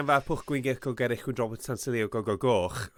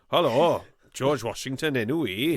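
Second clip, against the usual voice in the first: put-on Welsh accent; 3 semitones higher than usual. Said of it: "gave all the characters in Hamilton Welsh accents".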